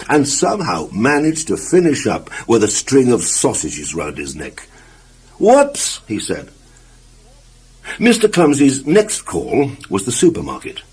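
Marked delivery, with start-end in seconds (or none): 5.4-6.0 high, rising startled yelp; sudden high-pitched oops; startled whoops. Acted. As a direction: squeak it out in surprise. Sausages round his neck.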